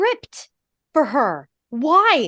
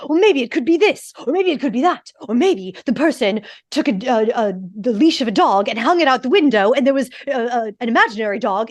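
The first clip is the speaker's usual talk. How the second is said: eager rambling theories; faster than usual. Retold or imitated. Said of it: "And she's like".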